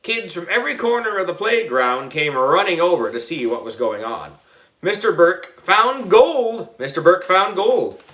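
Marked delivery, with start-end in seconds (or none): 4.8-8.0 put-on raised, higher-pitched kids' cry; mildly hollered news; excited announcement. A narrator's reading. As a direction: pass the big news along, pitched up. Kids spreading the exciting news.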